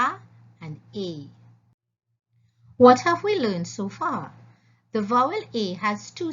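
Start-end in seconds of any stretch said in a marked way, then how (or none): 0.0-1.3 A as short ah, then A as long ay. Shown as a demonstration. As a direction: contrast the two a sounds. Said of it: "the short A and the long A".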